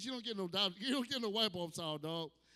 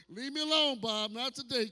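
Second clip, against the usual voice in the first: loud, raised shout; fed-up yell; 3 semitones higher, 7 dB louder than usual. Retold or imitated. Man yelling at Bob from accounting, loud and fed up. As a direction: bark it at the nosy coworker. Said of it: "telling off Bob".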